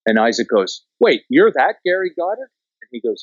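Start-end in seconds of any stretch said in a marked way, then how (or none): 1.0-2.5 a high, excited double take at the name; surprised recognition. Retold or imitated. Isaac recognizing Gary Goddard, high excited surprise. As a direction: catch the name and light up.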